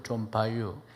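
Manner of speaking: brief Chungcheong punchline; Chungcheong dialect. Shown as a demonstration. Preacher giving the shortest version, in Chungcheong dialect. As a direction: answer like a Chungcheong local. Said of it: "충청도".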